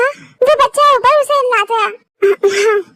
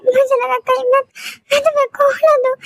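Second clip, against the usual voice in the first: crying; 3 semitones higher, faster than usual. Acted. Crying, feared losing him.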